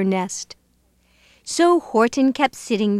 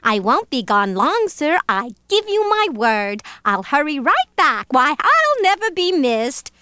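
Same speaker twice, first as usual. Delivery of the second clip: lilting plea, leaping up high; begging; 4 semitones higher than usual. Acted. Bird promising to hurry back, begging. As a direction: plead with eager upward swings. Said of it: "begged the bird".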